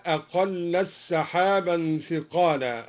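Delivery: أقل السحابا said "aqallas-sahaban", the t lost into a doubled s; ta merged into sin. Shown as a demonstration. Teacher shows al-Duri's merging, أقل السحابا with no t. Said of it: "وأدغم التاء في الساء".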